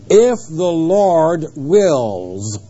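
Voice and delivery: very slow, each word drawn out; scripture quote. Acted. Preacher quoting the verse to his congregation, slow and deliberate. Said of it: "It doesn't mean like".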